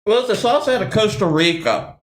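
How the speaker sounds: talking while chewing; mouth full. Real, not acted. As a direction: speak through a mouthful of food. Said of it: "Oh, I'm chewing".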